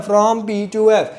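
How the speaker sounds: slow, deliberate; slow emphatic dictation. Shown as a demonstration. Teacher drilling the phrase into memory, slowly. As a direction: hammer the phrase home slowly. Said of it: "याद रखना है".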